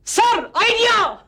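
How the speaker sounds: high, drawn-out excited cry; excited shout. Acted. Underling pitching second idea to boss, excited high shout. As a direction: sing out your brainwave, stretched and high.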